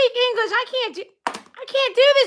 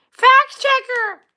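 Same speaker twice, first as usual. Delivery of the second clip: FACT checker, slowly and firmly enunciated; slow, insistent "Fact checker"; emphatic correction; 3 semitones higher, slower than usual. Pretend. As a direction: spell out "Fact" with every consonant. Correcting a mishearing.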